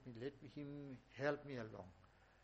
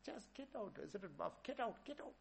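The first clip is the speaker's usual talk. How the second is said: high yelled orders to leave; pitched-up repeated yelling, get out; screaming get out; 9 semitones higher than usual. Retold or imitated. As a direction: drive him out with shouts. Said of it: "he's screaming and shouting".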